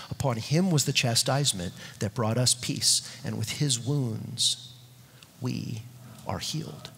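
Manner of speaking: near whisper, slowing and fading on the last words; breathy whispered reading of Isaiah fifty-three; hushed scripture reading. Acted. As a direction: let the verse sink into a reverent hush. Reads suffering servant text hushed.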